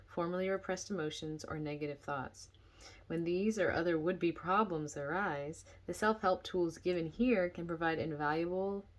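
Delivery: measured book-reading voice, projected; reading aloud. Real, not acted. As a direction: read the passage out clearly to listeners.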